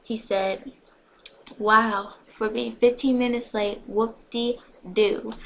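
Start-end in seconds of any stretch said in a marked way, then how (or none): 1.6-5.3 sarcastic retort. A narrator's reading. Mocking retort about lateness.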